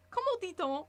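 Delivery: high, loud excited blurt; proud of a wrong phrase, lifted and loud; mixed-up French. Shown as a demonstration. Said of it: "Which means".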